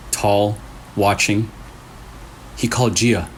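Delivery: creepy story narration. A narrator's reading. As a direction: draw the listener into a spooky tale. Reads a creepy story aloud.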